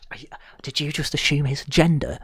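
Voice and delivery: fake-furious accusation, slowing down; mock indignant yelling; mock outrage. Mock outraged rant at Doctor.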